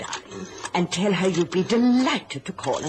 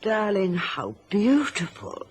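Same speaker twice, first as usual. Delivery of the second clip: silky, drawn-out admiration; smooth as silk; 4 semitones higher than usual. Acted. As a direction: coo approval to hide disapproval. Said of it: "her voice was as smooth as silk".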